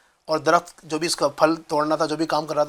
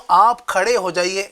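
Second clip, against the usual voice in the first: polite request. Shown as a demonstration. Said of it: "اور میں کہوں".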